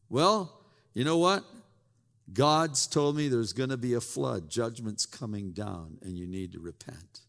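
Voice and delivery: a hint of earnest old Noah; Noah warning. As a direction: warn them of the flood, voice sinking. Noah warns the crowd.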